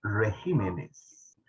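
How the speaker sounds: "regímenes" drawn out very slowly; careful, slow teacher's model of "regímenes"; emphasised word. Shown as a demonstration. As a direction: stretch out "regímenes", stressing the GÍ. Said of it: "recalco esta palabra".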